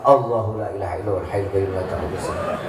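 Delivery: recited aloud, quick and chanting. Shown as a demonstration. Husband raises his voice reciting against wife's nagging. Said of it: "Agak dikencengin suaranya".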